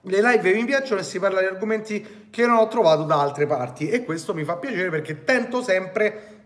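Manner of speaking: normal talking voice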